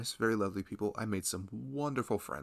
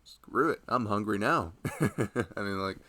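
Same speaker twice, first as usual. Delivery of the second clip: loving husband. Acted. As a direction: gently check in on your pregnant partner. Roleplays husband to pregnant wife.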